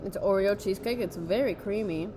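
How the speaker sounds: eating while talking; mouth full. Real, not acted. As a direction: talk through a mouthful of cheesecake. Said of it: "now you can hear all of us chewing".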